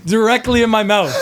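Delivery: high, loud laughing burst; cracking up while blurting it out; squealing with laughter at the punchline. Real, not acted. Laughing punchline of fart story.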